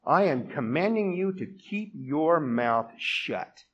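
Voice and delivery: mock scolding command; stern rebuke. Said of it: "He could have said to her".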